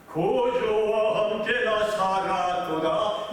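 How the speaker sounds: very slow, intoned recitation; solemn hymn line. Acted. (찬송가처럼 천천히 읊조리듯)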